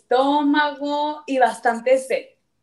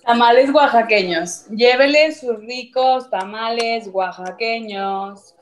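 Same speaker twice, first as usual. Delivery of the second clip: crackly looped vendor recording; slower than usual. Shown as a demonstration. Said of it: "Así".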